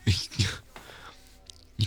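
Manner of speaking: slow, laughing whisper; half-laughing warning, breathed out slowly. Acted. To the handsy date in the back row, slow laughing whisper.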